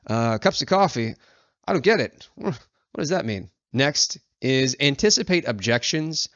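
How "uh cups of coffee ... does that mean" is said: puzzled, high confused voice; a hint of a baffled customer; confused reader. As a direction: play a humorless reader who doesn't get the joke. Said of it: "They might be like".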